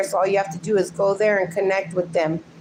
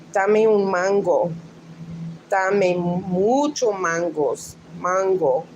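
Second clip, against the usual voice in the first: Spanish phrases with open-AH mango; Spanish accent; slower than usual. Shown as a demonstration. Teasing Luann with example phrases, Spanish accent. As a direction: demonstrate it in Spanish, drawn out slowly. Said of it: "how you say it in Spanish".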